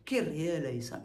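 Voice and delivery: Kyrie eleison with a rolled r. Shown as a demonstration. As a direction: roll the r in Kyrie. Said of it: "j'accentue le R".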